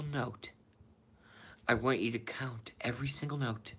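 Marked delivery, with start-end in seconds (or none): 1.7-3.7 whispered. Retold or imitated. Streamer whispering Donnie's movie line to chat, unvoiced whisper. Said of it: "This is from Donnie".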